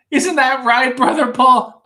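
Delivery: hammed-up Mankind voice. Mankind asks Paul Bearer.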